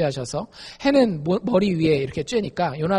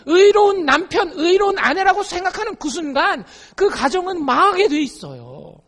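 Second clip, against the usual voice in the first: usual speaking voice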